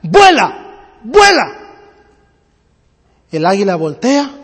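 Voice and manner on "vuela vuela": urging cries at mild strength; mock yelling. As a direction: call up to a bird in a tree. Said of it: "le empieza a gritar".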